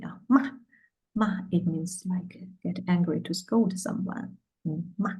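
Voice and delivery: ma short and falling, fourth tone. Shown as a demonstration. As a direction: snap ma down short and clear. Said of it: "say it short and clearly".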